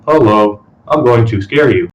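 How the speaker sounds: slow, droning mock monotone; flat bored delivery, slowly. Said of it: "talking in a monotone voice".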